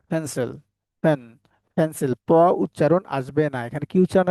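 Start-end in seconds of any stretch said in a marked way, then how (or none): 0.1-2.1 পেন্সিল and ফ্যান with aspirated p; right pronunciation. Shown as a demonstration. Teacher drilling the right sound, পেন্সিল starting "phen". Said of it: "right উচ্চারণ কেমন আসবে".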